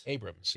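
"Abrams" as AY-brums, two syllables. Shown as a demonstration. Co-host correcting the name, "Abrams" in two syllables. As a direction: say "Abrams" without the middle "ha". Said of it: "It's pronounced Abrams".

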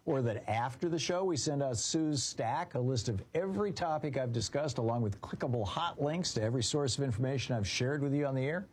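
polished radio promo read. Acted. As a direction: pitch the free newsletter to listeners. Host's recorded newsletter promo.

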